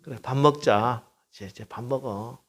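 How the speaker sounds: soft, calm mother's coaxing; mother soothing. Retold or imitated. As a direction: settle a sulking child softly. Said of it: "엄마가 가서 한마디 합니다". (아이를 달래는 엄마처럼 부드럽게)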